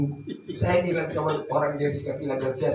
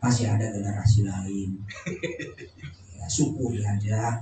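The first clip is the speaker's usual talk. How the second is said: low, softened words of condolence; mock consoling; 4 semitones lower than usual. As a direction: play a visitor gently comforting a widow. Acts out visitor consoling the widow. (menghibur janda dengan suara rendah)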